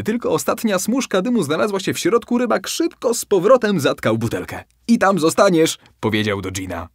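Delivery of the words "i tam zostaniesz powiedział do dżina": triumphant. Acted. Fisherman triumphs over trapped genie.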